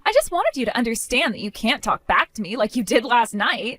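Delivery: lightly voiced catty sister, dismissive; smug sister-in-law. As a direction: shrug it off like a spoiled brat. Sister-in-law excuses pushing her.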